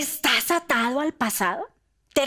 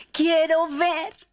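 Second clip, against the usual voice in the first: high, slow, louder plea; pleading; 7 semitones higher, 5 dB louder, much slower than usual. Acted. Blind man asking Jesus to see, pleading. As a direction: beg it with longing. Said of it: "dijo el hombre ciego".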